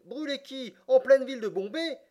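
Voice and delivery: high-pitched, incredulous questioning; amazed, rising disbelief; astonished judge. A narrator's reading. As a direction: ask in utter astonishment, voice shooting up. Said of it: "profond étonnement du juge Obadiah".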